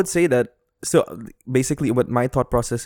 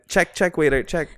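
calling for the check; 4 semitones higher than usual. Pretend. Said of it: "Again, again".

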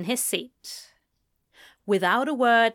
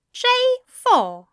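higher, louder confident call; 9 dB louder than usual. Acted. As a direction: call it out sure of the hit. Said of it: "Aziraphale said confidently".

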